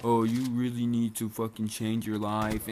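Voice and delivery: slow, drawn-out imitation of a lecture; mock lecturing. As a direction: lecture him slowly, as a retold quote. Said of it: "I'm getting fucking lectured".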